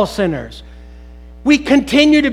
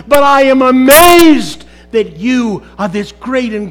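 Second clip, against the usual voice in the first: fervent praise; 3 semitones higher, 6 dB louder than usual. Acted. Preacher voicing his own praise to God, fervent and loud. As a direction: pour out amazement to God.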